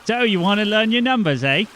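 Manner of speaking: lightly voiced teacher. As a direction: greet the boy like a friendly teacher.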